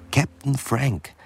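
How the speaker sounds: hoch, langsam gerufen; rufend. Acted. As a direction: ruft über das Deck. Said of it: "ruft Mallaby". (Mallaby ruft den Captain, hoch und gedehnt)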